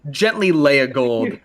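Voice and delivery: slow, careful wording; gently. Shown as a demonstration. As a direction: lay it down gently, slowly. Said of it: "actually, not toss".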